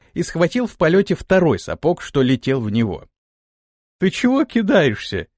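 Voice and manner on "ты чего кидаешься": higher, annoyed question; ask, annoyed at being woken; displeased. A narrator's reading. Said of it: "недовольно спросил он". (недовольный вопрос)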